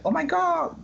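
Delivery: high-pitched mock London lady; attempted London accent. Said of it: "she's London. I, I, I can't do a London accent".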